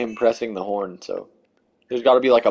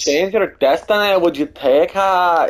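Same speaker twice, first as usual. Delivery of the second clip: Scottish accent; 6 semitones higher than usual. Shown as a demonstration. Player showing friends what Scottish is, Scottish accent. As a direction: show off a hammed-up Scottish accent. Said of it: "This is Scottish".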